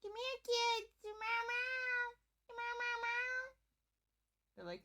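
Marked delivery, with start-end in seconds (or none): 0.0-3.5 much higher, louder pet call; calling the cats. Shown as a demonstration. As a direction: coax the cats to come, slowly at end. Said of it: "when I call my cats".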